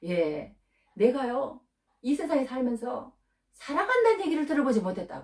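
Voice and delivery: lightly playing a man who was never loved; voicing the man. Preacher voicing the pimp's sad reply to a pastor. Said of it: "한다는 얘기가 이렇게 얘기를 한대요".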